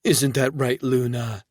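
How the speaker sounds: high sing-song to a pet; cooing to the pup in a high lilt. Acted. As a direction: coo it up high. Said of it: "Reba spoke in a sing-song voice".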